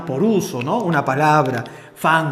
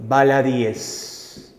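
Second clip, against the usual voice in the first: baladíes drawn out very slowly, syllable by syllable, stressed í; slow, spelled-out plural; 4 semitones lower, much slower than usual. Shown as a demonstration. Teacher dictating the plural baladíes to students, very slow. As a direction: stretch out baladíes slowly so each syllable lands. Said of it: "la única forma de plural que me va a aceptar es".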